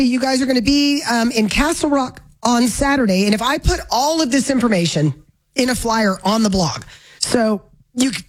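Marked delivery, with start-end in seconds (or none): 3.2-8.2 talking through the hiccups; speech broken by hiccups. Real, not acted. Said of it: "excuse me, I got the hiccup".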